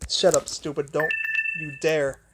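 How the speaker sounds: low, soft, irritated muttering; scolding a dying phone charger under his breath; annoyed mutter. Real, not acted. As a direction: grumble it under your breath at a gadget. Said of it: "I'm getting kinda mad".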